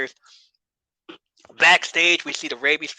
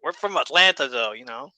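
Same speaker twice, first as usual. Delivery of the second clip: southern drawl. Retold or imitated. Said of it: "put in that southern drawl some more".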